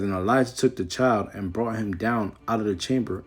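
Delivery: measured King James reading voice; scripture reading. Acted. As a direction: read the verse with solemn weight. Reads scripture aloud.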